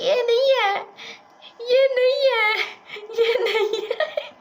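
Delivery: put-on a little girl shouting no, not her; insistent child protest. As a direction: tug his shirt and insist it isn't her. Child rejecting wrong mothers.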